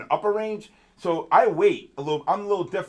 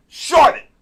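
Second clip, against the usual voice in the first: retold shout; 12 semitones higher, 11 dB louder than usual. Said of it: "I said".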